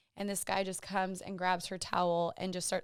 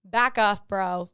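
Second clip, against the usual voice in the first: retold shout; 10 dB louder, much slower than usual. Telling rude guy to back off.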